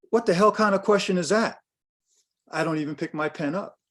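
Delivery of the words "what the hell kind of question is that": mock outraged client, higher; hammed-up affront at the question; a client taking offence, retold; indignant client.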